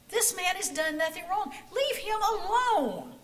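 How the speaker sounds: high, loud rebuke, slowing at the end; yelling. A narrator's reading. Joachim yelling at Korath to leave Jesus alone, loud and high. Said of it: "Joachim yelled at him".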